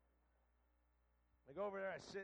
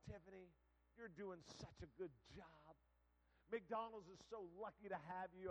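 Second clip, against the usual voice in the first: gentle, slow encouragement; acted kindly pep talk; reassuring praise. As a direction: comfort a tearful young worker. Reassuring a crying young worker.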